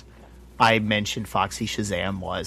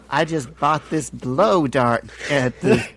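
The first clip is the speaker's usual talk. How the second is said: slow, lightly put-on celebrity impression; 3 semitones higher, slower than usual. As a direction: draw the words out, imitating a singer's speaking voice. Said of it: "he talks like, like Michael Jackson".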